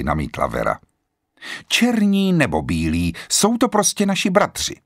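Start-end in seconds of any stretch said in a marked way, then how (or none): 1.7-4.8 a mildly stern declaration. A narrator's reading. Emily sternly corrects Vera about the soldiers, mildly stern. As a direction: state it firmly like a strict old lady. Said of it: "prohlásila přísně".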